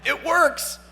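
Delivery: high laughing exclaim. Real, not acted. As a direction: laugh it out, delighted.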